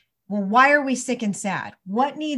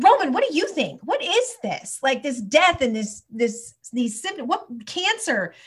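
high-pitched, exasperated questioning; retold angry demand; 5 semitones higher than usual. Mom demanding answers of her young son, angry. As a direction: re-enact an outburst, demanding an answer. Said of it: "I was so angry".

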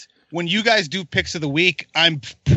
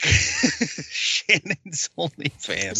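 laughing; 4 dB quieter, much slower than usual. Real, not acted. Laughing joke pick.

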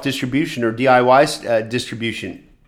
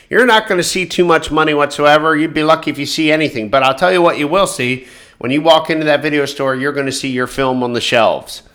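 a touch louder, smug mock dealmaker; lightly hammed-up distributor brushing off money; stupid distributor voice; 4 dB louder than usual. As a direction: distributor dismisses the filmmaker's money question, in a mock voice. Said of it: "I'm gonna use a really stupid voice".

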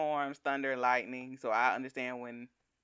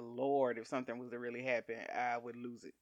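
quiet inner prayer; 4 semitones lower, 5 dB quieter than usual. Retold or imitated. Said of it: "I said".

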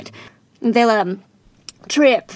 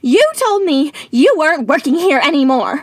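put-on American accent. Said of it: "drop the American accent".

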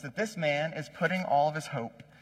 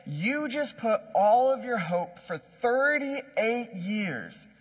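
higher-pitched, drawn-out emphatic admonishing; earnest reminder; 5 semitones higher, slower than usual. Acted. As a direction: drive the warning home, stretching the key words. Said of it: "is reminding this man".

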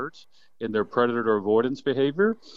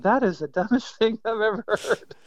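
scoffing laugh; 10 semitones higher than usual. Retold or imitated. Young him scoffing at hunting seasons.

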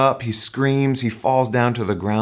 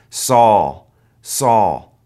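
voice from heaven calling; 7 dB louder than usual. Acted.

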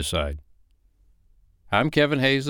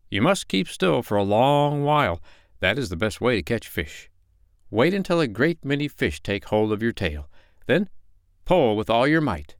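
sly fox; 5 semitones higher than usual. Acted. Fox voiced in story.

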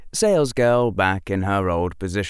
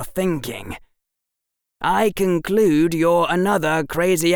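put-on higher boyish voice with a touch of bitterness; bitter boy; 5 semitones higher than usual. A narrator's reading. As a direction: spell it out bitterly to the professor. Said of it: "Harry's face twisted in bitterness".

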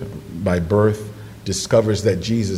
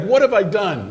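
mock dismay; 10 semitones higher, 4 dB louder than usual. Woman shocked by snake.

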